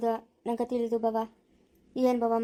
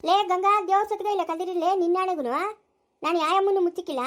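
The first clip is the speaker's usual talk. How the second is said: angry call; 5 semitones higher than usual. Acted. Angry mother-in-law calls out.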